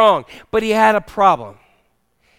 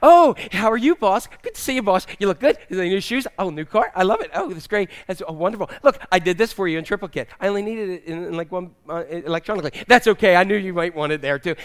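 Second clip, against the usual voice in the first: gushing suck-up. Acted. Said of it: "the suck-up who says".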